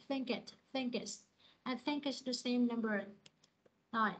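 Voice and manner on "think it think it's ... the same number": "think it" joined as thin-kit; linking. Shown as a demonstration. Teacher corrects a student's dropped think. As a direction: carry the k of think into it. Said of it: "Âm khờ này".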